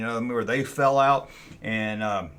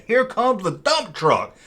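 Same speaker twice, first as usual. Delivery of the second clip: called warning; 7 semitones higher, 4 dB louder, slower than usual. Retold or imitated. Warning heard from outside.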